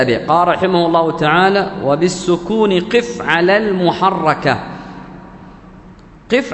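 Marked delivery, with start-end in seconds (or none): 1.8-4.6 slow, measured recitation of the verse; recited verse. Shown as a demonstration. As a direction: chant the line of the poem slowly.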